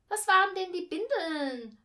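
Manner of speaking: put-on high, loud child voice; brash kid's question. A narrator's reading. Boy wants a word from the reading explained, loud and blunt. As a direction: demand the meaning loudly.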